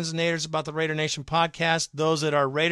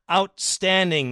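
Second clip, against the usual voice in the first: sarcastic praise; 4 semitones higher, 4 dB louder, slower than usual. Retold or imitated. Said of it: "He's being very sarcastic".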